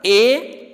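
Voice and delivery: ए as one long, pure vowel; isolated teaching ए for the letters AI; AI sounded as ए. Shown as a demonstration. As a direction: hold ए as a single phonics sound. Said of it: "एआई का उच्चारण".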